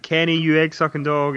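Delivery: half-hearted go at an American wrestler; Terry Funk. Retold or imitated. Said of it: "I can't do the accent".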